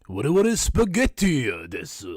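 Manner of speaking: cartoon plumber with an Italian accent; Mario. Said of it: "your Italian voice".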